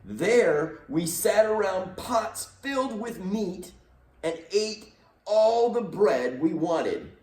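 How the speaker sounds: lightly voiced whiny complaining; moaning Israelites. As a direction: moan it like hungry grumblers. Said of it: "they moaned".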